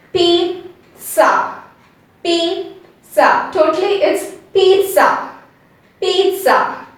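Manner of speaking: "pizza" said peet-sa, first syllable prolonged; "Pizza" with a T sound and short sa; correct model. Shown as a demonstration. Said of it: "I'm prolonging P E E T a bit".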